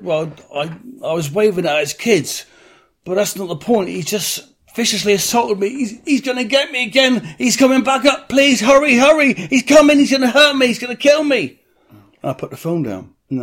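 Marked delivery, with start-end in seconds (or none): 0.0-11.6 building to a high, loud fake terror; escalating mock hysteria, ending in a laugh; hammed-up panic. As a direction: fake a frantic victim begging them to hurry. Fake panicked call to police.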